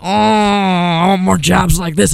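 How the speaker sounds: playful dog voice, lightly put on; imagined police dog loving the smell, mock voice. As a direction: relish it like a happy sniffer dog. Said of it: "They must have been like".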